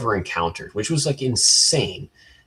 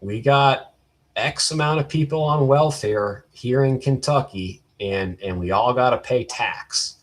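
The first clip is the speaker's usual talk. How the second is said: lightly put-on Kentucky accent, slightly raised; bad Kentucky accent; 3 semitones higher than usual. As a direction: badly mimic a stubborn Kentucky dealer's accent. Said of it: "gonna do a bad, uh, accent impression".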